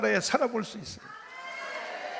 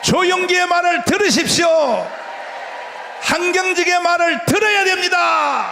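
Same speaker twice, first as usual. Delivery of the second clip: high, loud rally exhortation; preaching shout; 7 semitones higher, 4 dB louder than usual. Real, not acted. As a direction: bellow it to the crowd. Rally climax, crowd exhortation. (목청껏 외치는 설교)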